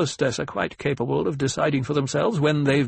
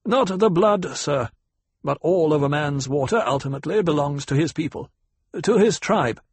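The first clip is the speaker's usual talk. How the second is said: pitched-up, emphatic lecturer; lecturing; 5 semitones higher than usual. Acted. Ecologist corrects the banker on Fremen custom, lecturing. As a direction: instruct them point by point, firmly. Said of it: "spoke in a lecturing tone".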